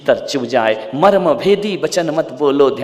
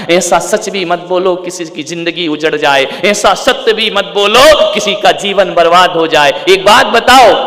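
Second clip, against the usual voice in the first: sermon warning growing louder and higher; rising exhortation; 5 semitones higher, 6 dB louder than usual. Acted. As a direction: build steadily to a loud challenge. Preaching, building in force.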